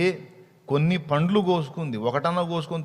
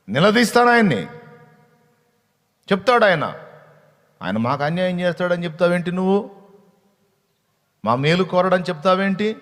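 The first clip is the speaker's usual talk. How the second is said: higher, louder confrontational cry; indignant outburst; 4 semitones higher, 6 dB louder than usual. Acted. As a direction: fire it back in righteous anger. Eve vows to confront, mocking retort. (ఆవేశంగా గట్టిగా నిలదీయడం)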